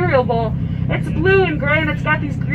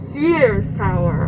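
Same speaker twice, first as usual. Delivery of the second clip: Sears Tower, lower and slow, in a joking Chicago accent; mock Chicago accent; 6 semitones lower, slower than usual. Shown as a demonstration. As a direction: lean into a thick Chicago accent for the punchline. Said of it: "I just have this thick Chicago accent".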